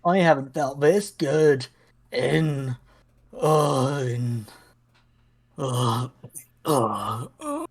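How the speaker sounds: put-on faltering, fading old man; losing strength mid-sentence.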